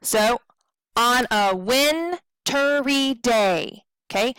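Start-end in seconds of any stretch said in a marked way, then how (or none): 0.9-3.8 slow scansion, WIN and DAY drawn long; short-short-long rhythm. Shown as a demonstration. Teacher scanning second line, long stresses on WIN and DAY. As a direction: stretch "WIN" in wintry and "DAY", keep the rest light. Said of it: "going to be the same way".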